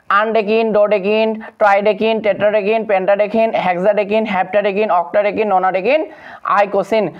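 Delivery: "আনডেকিন" ending in an -een sound; even recital, each name closing on -een like "ডোডেকিন"; ending pronounced IN. Shown as a demonstration. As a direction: run through "আনডেকিন" to "আইকোসিন" as a pronunciation drill. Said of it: "এভাবে আমরা উচ্চারণ করব".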